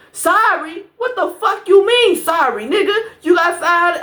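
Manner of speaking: furious at the friend's sorry; getting mad. Real, not acted. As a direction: snap back at the apology. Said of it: "I'm getting mad".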